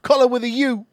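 shouted fake British accent, pitched high; loud, exaggerated British impression; mock British accent. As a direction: yell one word like a cartoon Brit. Mock British accent word game.

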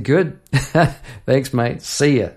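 chuckling cheerful goodbye; laughing thanks. Retold or imitated. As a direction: laugh through a quick farewell. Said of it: "I said".

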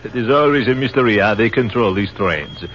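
put-on English with a light French accent; French captain chatting on the train, in a light French accent. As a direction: play the French officer, polite and amused.

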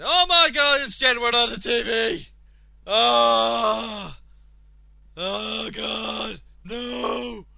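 loud shocked outburst, voice jumping up; excited shout. Real, not acted. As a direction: yell at the TV in disbelief. Spots a pop duo on TV.

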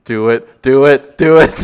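playful urging that grows with each repeat; egging on. Real, not acted. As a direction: goad them with a rising, insistent chant. Co-host eggs on the Luigi impression.

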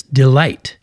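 delight with a weak de and emphasized LIGHT; stress on second syllable. Shown as a demonstration. Teacher demonstrating unstressed then stressed, delight stressed on LIGHT. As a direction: land the weight on the light of delight. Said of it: "not emphasized and light is".

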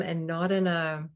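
ordinary delivery

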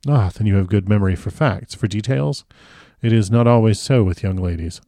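lightly voiced courteous foreign doctor; a hint of the old professor, politely remarking; Van Helsing.

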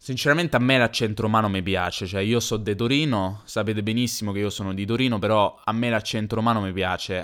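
put-on a light Roman accent, easygoing; a mild put-on Roman accent. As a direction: speak like a chatty Roman about what you like. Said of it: "se dovessi fare un accento romano io parlerei così".

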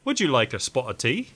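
light mock British accent, jokey and polite; a quick tongue-in-cheek British gent offering tea. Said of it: "Was that your British accent?".

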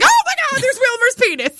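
high shocked squeal; shocked gasp. Retold or imitated. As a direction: react like you just saw something obscene. Shocked retold reaction, high pitch.

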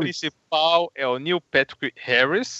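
lisping through a gap in the teeth; missing tooth. Real, not acted. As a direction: talk around a broken tooth. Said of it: "Eu tô sem um dente".

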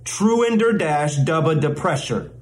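"Truender dash dubba depressure" in measured chunks; slow careful take. Shown as a demonstration. Mock teacher models one long word, slowly and carefully. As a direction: take your time over each piece of "Truender dash dubba depressure". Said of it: "Say it a little more quickly".

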